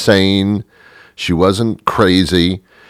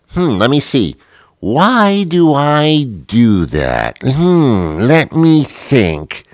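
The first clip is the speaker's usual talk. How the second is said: mock ponderer; 3 semitones higher, much slower than usual. Mocking someone repeating questions.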